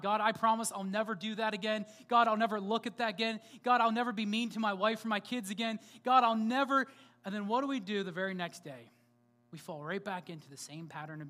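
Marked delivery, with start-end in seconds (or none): 0.0-6.9 earnest, rising pleas to God; pleading promise. Retold or imitated. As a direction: beg God louder with each vow. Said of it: "You ever make a promise to God?".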